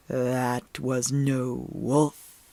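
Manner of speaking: low, very slow, soft wolf voice; a wary wolf setting the record straight; growling wolf. A narrator's reading. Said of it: "said the growling voice".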